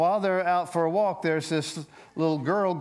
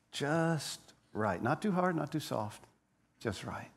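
fading softer to a hush; quiet, lingering storyteller hush; softly savoured; 5 dB quieter than usual. Acted. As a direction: let it trail away gently.

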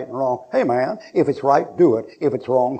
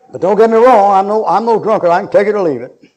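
loud, higher, hammed-up denial; mock protest; 6 semitones higher, 8 dB louder than usual. Preacher mocking a drinker who swears he's no drunkard, loud mock protest. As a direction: protest too much like a tipsy man.

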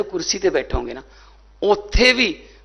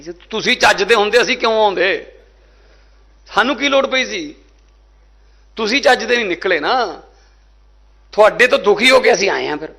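indignant retort; 4 semitones higher than usual. Retold or imitated. Retort to mocking rivals.

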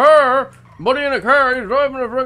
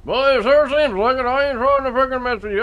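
put-on thick rural accent. Local insists this is how he always talks, thick rural accent. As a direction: lean hard on the rural accent and the boy.

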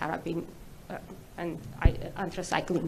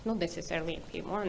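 speaking off-mic, faint and far; moving handheld mic; faster than usual. Real, not acted. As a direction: voice distant from the mic. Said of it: "No, can you speak up".

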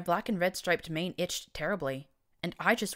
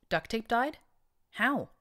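shocked, higher gasping questions; gasped question; 8 semitones higher, 4 dB louder, slower than usual. A narrator's reading. Blackjack to Rivets about Duct Tape, shocked gasp. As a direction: gasp the news out, pitch jumping up. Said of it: "I gasped".

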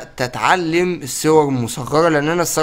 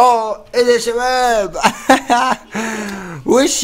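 1 laughing surprise; 6 semitones higher, slower than usual. Real, not acted. Shocked by egg, laughing.

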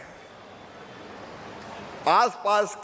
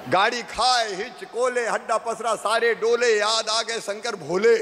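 sing-song rally couplet with a stretched ending; comic rhyme recital. Shown as a demonstration. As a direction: chant the rhyme in even beats, drawing out the last line. Recites a comic rhyme about old roads.

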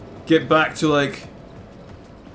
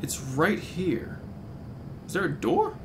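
whisper; 2 semitones higher, 8 dB quieter, slower than usual. Real, not acted. Quiet whisper while exploring.

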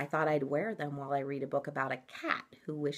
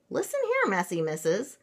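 scolding mama; 5 semitones higher than usual. Acted. Storybook mama scolds the girls.

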